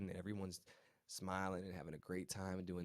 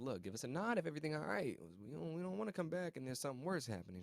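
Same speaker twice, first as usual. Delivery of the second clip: officer's concern; 7 semitones higher than usual. Retold or imitated. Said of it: "the officer's like".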